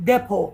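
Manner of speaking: "depot" pronounced without its final T; silent T. Shown as a demonstration. Teacher shows students how depot is said, silent T. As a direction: drop the T in "depot", finish on O. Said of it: "T silent".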